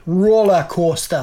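slow, drawn-out Geordie accent; attempted Geordie accent. Shown as a demonstration. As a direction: demonstrate Geordie on the target word. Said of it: "if you wanna do Geordie".

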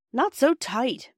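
high, drawn-out moan; slow, whiny complaint of pain. A narrator's reading. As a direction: stretch it into a play-acted moan. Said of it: "moaned Peter".

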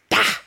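sudden imitated pop-star shout; a singer. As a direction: punch out one short vocal noise. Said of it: "series of pop-star noises".

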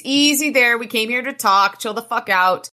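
calm down plea; tag only. Acted. Harry calming Elaine's fighting stance.

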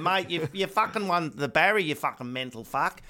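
a mate shouting with glee; ecstatic manager. Retold or imitated. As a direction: yell the news down the phone. Manager announces award win, ecstatic.

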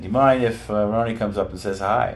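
lightly voiced New Zealand bodyguard asking politely; New Zealand accent. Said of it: "in his New Zealand accent".

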